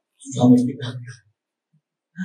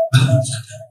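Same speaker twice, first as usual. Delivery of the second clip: calling out wake up. Retold or imitated. Calling the man awake.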